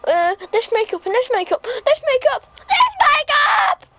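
frantic. Acted. Frantic makeup search building.

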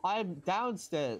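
yelling across the room. Real, not acted. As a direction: call it out so they hear. Shouting location to teammates.

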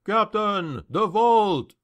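high urgent call to a superior; startled guard crying out; alarmed cry. A narrator's reading. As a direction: call the alarm, pitched well up. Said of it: "cried a voice".

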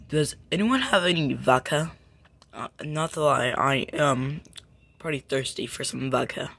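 lightly done bad Russian accent; terrible Russian accent. Asking around for vodka, weak Russian accent. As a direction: attempt a Russian accent, not very well. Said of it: "You have a terrible Russian accent".

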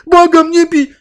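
high, loud mock plea; udawany krzyk ofiary. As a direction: scream it like a victim acting up for cameras. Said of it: "zacznie krzyczeć". (udawany, przerażony krzyk błagania)

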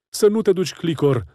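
wife clinging to his arm, screaming high and loud. A narrator's reading. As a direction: scream at him not to leave. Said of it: "țipă nevastă sa".

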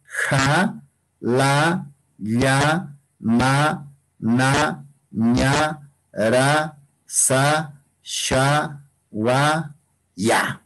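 each consonant read with an open "a": "ja, la, ya, ma"; Quechua consonant reading. Shown as a demonstration. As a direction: sound out "ja, la, ya" one syllable at a time, evenly. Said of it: "en el quechua se debería de leer".

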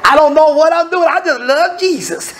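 mock naive believer. Mocking a naive churchgoer.

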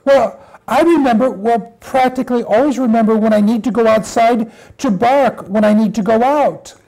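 fast, backtracking puppy chatter; little puppy. Acted. Puppy explains himself to mother, hurried little puppy voice. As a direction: hurry through the excuse as a puppy.

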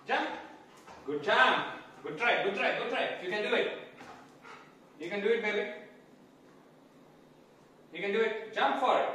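loud encouraging cheer; excited cheering. Real, not acted. Cheering dog on.

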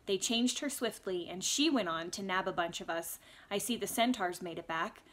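steady audiobook reading voice; story narration. A narrator's reading. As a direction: read it like a storyteller. Reads the novel aloud.

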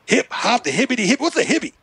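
rapper impression doing a stand-up rant; a rapper. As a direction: imitate a rapper working up a bit. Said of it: "like he was doing stand-up".

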